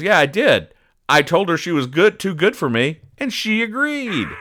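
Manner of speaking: sad-sack Eddie voice. Acted. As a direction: play Eddie as a pitiful loser. Eddie's sad punchline, voiced high.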